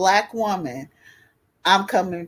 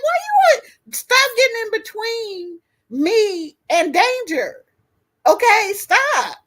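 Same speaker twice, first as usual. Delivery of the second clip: high, laughing, half-crying protest; laughing mock plea; 12 semitones higher than usual. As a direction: beg her daughter to stop while laughing. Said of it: "I'm like".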